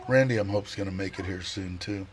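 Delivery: talking through hiccups; words broken by hiccups. Real, not acted. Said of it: "I'm hiccuping".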